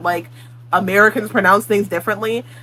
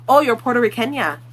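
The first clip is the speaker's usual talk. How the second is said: mock Spanish accent; 3 semitones higher than usual. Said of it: "someone's like".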